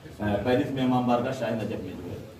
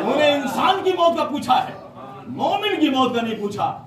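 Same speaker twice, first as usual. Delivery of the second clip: higher, louder repeat driving the point home; emphatic repeat; 11 semitones higher, 3 dB louder than usual. Acted. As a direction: say it again to the crowd, ringing out. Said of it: "repeated line for emphasis". (زور دے کر دہرانا)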